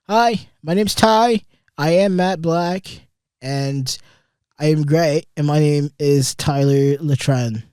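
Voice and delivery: loud, slow mock host intro; announcer voice. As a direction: introduce yourself like a show host. Mock podcast intro sign-off.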